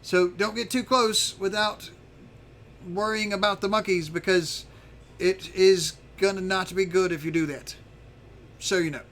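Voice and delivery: lightly voiced lookout, explaining the danger; Zarf, confiding a warning. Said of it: "he tells you, he says".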